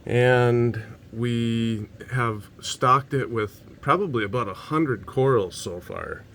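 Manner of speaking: breathless from running upstairs; out of breath. Real, not acted. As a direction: talk while catching your breath. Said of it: "Sorry, I'm out of breath".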